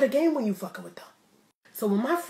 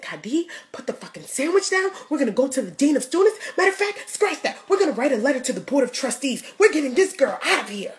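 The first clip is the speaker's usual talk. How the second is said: fired-up white friend; 4 semitones higher, 5 dB louder than usual. Retold or imitated. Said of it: "She looked at me and said".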